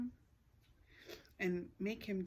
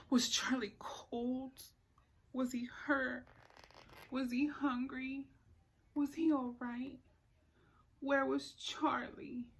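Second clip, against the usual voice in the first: worried; 3 semitones higher than usual. Acted. Elizabeth's worried thoughts at night.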